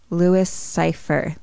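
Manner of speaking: "Louis Cypher" drawn out slowly; slow realisation. Retold or imitated. Mickey works out the devil's name, slow realisation. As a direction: stretch "Louis Cypher" as if sounding it out. Name slowed until Lucifer is heard.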